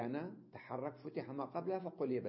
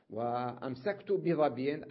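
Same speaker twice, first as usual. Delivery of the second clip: وأمسكت بظبي said slowly and louder; slow example reading; 6 dB louder, slower than usual. Shown as a demonstration. Teacher reading the example slowly to the class. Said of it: "الياء متطرفة مكسورة".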